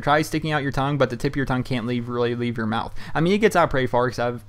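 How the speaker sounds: ordinary talk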